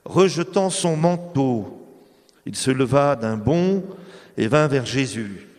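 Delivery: slow, measured scripture reading; Gospel reading. Acted. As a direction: read the passage with solemn care. Reads the Gospel passage aloud.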